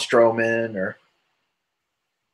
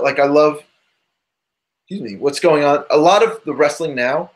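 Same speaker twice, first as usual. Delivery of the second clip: hiccups. Real, not acted. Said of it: "I have the hiccups".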